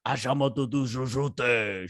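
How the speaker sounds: lightly put-on tribal chant voice; mock tribal voice. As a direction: imitate her tribal voice, half-hearted. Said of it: "the tribal voice".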